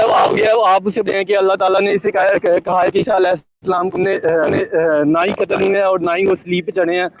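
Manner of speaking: breaking up over a bad line; choppy, dropping out signal; voice cutting out. Real, not acted. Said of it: "आपकी अगरचे आवाज़ cut रही थी".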